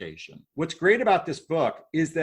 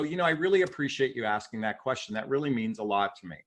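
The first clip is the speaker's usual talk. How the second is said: sincere thanks; 3 semitones lower, faster than usual. Shown as a demonstration. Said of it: "you go".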